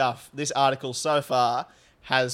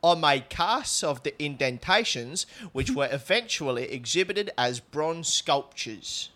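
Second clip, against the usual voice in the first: lightly put-on South London woman; reading the artist's quote in a light South London voice; South London accent. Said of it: "you do the voice for her".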